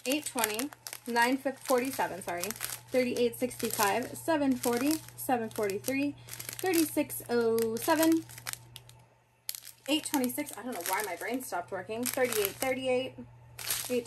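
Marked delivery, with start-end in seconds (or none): none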